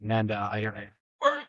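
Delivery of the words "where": mock yell, much higher; imitating a scream. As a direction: squeal it out like a retold yell down a hallway. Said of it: "He's screaming".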